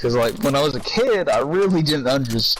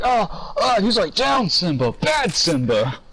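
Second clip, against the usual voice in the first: higher, slow scolding of the elephant; Cat in the Hat voice; 7 semitones higher, slower than usual. Retold or imitated. Retelling the elephant scene, a high slow scold. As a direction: scold a big pet, hammed up.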